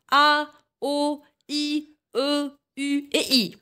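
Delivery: chaque voyelle détachée, bien articulée. Shown as a demonstration. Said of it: "Je répète". (voyelles prononcées lentement et nettement)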